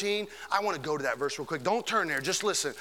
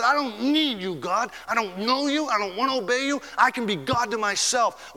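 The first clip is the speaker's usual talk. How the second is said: defiant sinner; 4 semitones higher than usual. Retold or imitated. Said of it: "be like Pharaoh and say".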